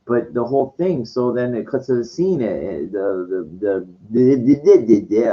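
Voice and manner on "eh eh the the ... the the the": Biden stammer. Pretend. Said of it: "I'm doing Biden a lot today".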